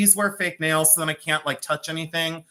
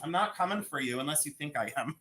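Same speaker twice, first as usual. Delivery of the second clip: mock sassy reply; 5 dB quieter than usual. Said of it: "I'll say".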